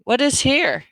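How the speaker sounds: loud, high, barked question; soldier's demand. A narrator's reading. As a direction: demand an answer at the door. Soldier demands at the bedroom door.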